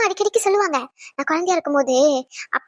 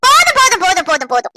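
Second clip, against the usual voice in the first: exasperated outburst; 4 dB louder than usual. Real, not acted. Wife cuts off husband's praise.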